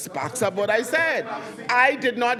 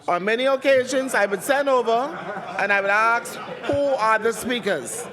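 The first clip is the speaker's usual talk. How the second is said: louder, insistent and exasperated; raised heated voice; 2 semitones higher, 4 dB louder than usual. Real, not acted. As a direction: push back hard, voice raised. Speaker heatedly rebutting a member.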